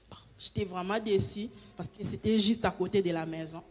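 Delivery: whispered, let down; disappointed whisper. Real, not acted. Whispering her disappointment over the lost job. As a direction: breathe it out like a sigh of defeat.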